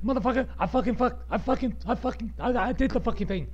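high-pitched stammering boast; imagined triumph. Acted. Podcaster imagining reaching episode ten, high mock-triumphant crowing. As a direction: crow it as an imagined victory. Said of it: "I can be like".

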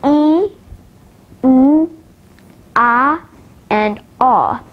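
"E", "oo", "ah" and "ah" each held long; long vowel recap. Shown as a demonstration. Teacher recapping long vowels, each sound held and separate. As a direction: separate drawn-out vowels, last "ah" as in draw. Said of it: "let's recap the long vowels".

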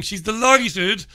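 drawn-out, slow mock-jolly delighted. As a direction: stretch it out slowly like a gushing presenter. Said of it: "She sounds very jolly".

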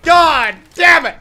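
loud, drawn-out furious yell; angry shout. Real, not acted. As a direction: blow up in frustration. Frustration after dying.

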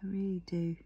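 breathy whispered repeat; whispering. Real, not acted. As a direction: drop to a whisper for yourself.

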